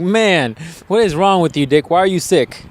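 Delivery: mock scolding. Scolding his own misbehaving body.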